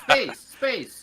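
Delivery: very high, very loud melodramatic narrator. Shown as a demonstration. Host demonstrating the space show's narrator voice, melodramatic and loud. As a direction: ham it up as an over-the-top announcer. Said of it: "my narrator voice sounds like this".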